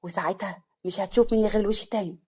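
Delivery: understated threat, loud first then controlled; angry. Acted. Slim ordering his rival away, restrained anger. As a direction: threaten him with contained anger. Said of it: "سليم بغضب".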